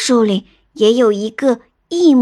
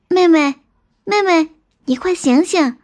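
higher-pitched urgent calling; urgent wake-up call; 5 semitones higher than usual. Acted. Elder sister waking her sleeping little sister, urgent calling. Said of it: "连忙推醒妹妹".

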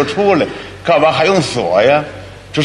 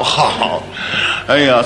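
normal talking voice

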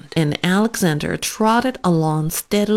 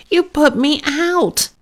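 flustered mother; 8 semitones higher than usual. Acted. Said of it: "said Aunt Petitos".

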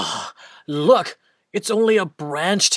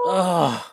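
weary sigh. Acted. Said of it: "Big Mouse sighed".

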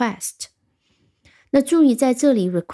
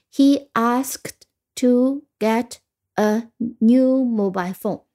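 1 slow casual example. Shown as a demonstration. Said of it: "我们通常用ask".

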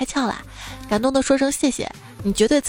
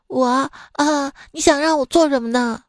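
higher, timid student asking back; 4 semitones higher than usual. Acted. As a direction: play the nervous new student. Student answering the supervisor. (学生怯生生地反问)

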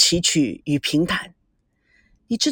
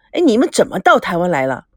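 asking seriously this time, 到 falling; serious repeat of the question; 3 semitones lower than usual. Acted. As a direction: drop the joking and ask straight. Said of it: "说正经的".

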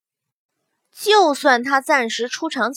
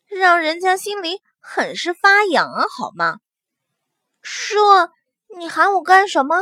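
put-on coy young woman; 4 semitones higher than usual. Young woman character's coy protest.

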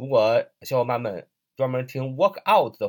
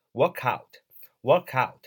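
read slowly; much slower than usual. Shown as a demonstration. Teacher showing students the slow reading, slow and separated. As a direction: work out said slowly, word by word. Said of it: "大家慢慢读是".

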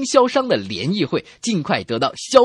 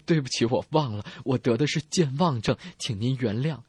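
softer, lower apology; apologetic; 4 semitones lower, 5 dB quieter than usual. Acted. Forgetful patient apologizing to the doctor, apologetic. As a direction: quietly beg pardon as the patient. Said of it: "病人抱歉地说".

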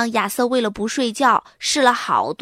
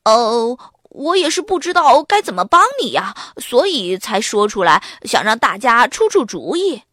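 aggrieved; 4 dB louder than usual. Acted. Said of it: "巴斯特一脸委屈".

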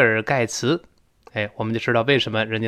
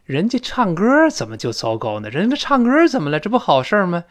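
higher-pitched puzzled protest; acted bafflement; 5 semitones higher than usual. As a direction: question it as if it makes no sense. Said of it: "莫名其妙". (装作莫名其妙地高声反问)

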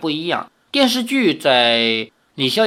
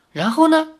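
sharp, much higher "and then?"; alarmed question; 13 semitones higher than usual. A narrator's reading. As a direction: demand the rest, startled. Grandmother presses, alarmed.

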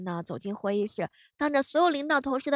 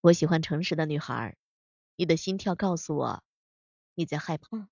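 low and cool, a hint of a smirk; a lightly voiced arrogant tycoon; domineering CEO voice; 6 semitones lower than usual. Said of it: "还有一些霸道总裁经常会这么说".

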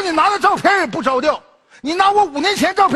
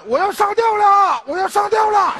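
slowed, higher wail of a ruined man; mock despairing wail; 5 semitones higher than usual. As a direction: wail it like he's at the end of his rope. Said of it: "一边吃狗粮一边喊".

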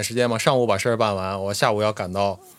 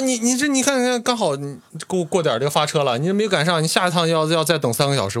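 imitating urgency; 3 semitones higher than usual. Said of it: "那人就特别着急说".

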